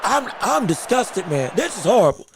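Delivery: angry. Real, not acted. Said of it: "I'm livid".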